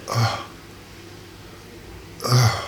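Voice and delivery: low, soft grunted "uh"; imitated moan. Man retelling sounds heard over the phone, soft imitated moan. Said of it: "I hear some".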